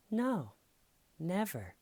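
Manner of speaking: put-on very high little-girl denial; melodramatic, octaves up. Girl denying she thought of stabbing, high melodramatic imitation. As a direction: imitate her childlike high protest. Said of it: "I better raise up a couple octaves".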